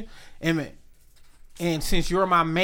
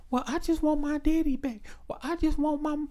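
put-on whiny child; 8 semitones higher, 8 dB quieter than usual. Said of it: "and y'all be like".

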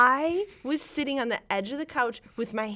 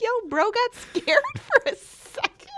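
laughing, higher pitched and louder; 13 semitones higher, 5 dB louder than usual. Retold or imitated. Laughing as she retells the couch reaction to Walken. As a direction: crack up mid-line at the silly scene. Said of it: "we were like".

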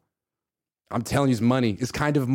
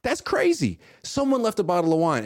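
fake surprise; 5 semitones higher than usual. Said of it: "and you're like".

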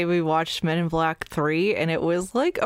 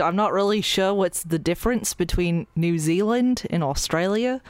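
attempted Australian accent. Shown as a demonstration. Trying New Zealand accent, praised after.

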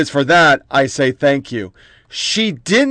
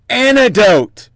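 "anecdote" drawn out slow and a bit higher, mocking; sarcastic anecdote; 5 semitones higher, slower than usual. Host mocking the media's excuse, drawn-out sneer. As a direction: stretch the word "anecdote" out with scorn.

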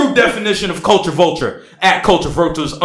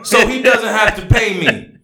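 mock passion; 5 semitones higher than usual. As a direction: overact the wronged man's post. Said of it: "I need more dramatics".

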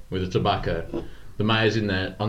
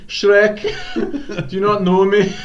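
laughing; 12 semitones higher, 8 dB louder, slower than usual. Acted. Shrek voice laughing.

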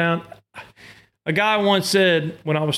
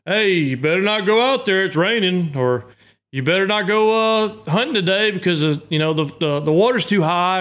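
grandpa voice; 3 semitones higher than usual. Retold or imitated. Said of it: "kinda like your grandpa".

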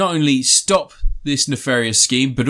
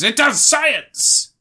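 mock wife; 11 semitones higher, much slower than usual. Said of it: "his wife comes along and says".

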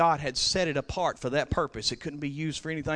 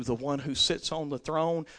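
ordinary talk, nothing marked

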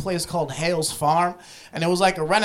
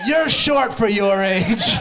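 drawn-out, raised-voice jab; rude heckle; 3 semitones higher, 4 dB louder, much slower than usual. Acted. Farm worker picking on a kid in the cotton, rude drawn-out call. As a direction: call it out rudely, stretching the words. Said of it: "was slightly rude to us".

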